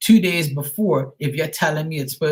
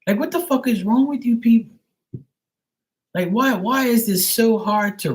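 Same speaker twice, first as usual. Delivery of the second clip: much higher and louder, fed up; exasperated outburst; 8 semitones higher, 4 dB louder than usual. Real, not acted. Ranting at the courier companies, loud and exasperated. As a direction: blow up at them in disbelief.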